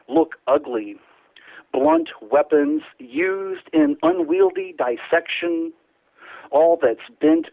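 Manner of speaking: slow, measured spoken-word delivery; poetry reading. Acted. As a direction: let each image hang in the pauses. Reads his poem on air.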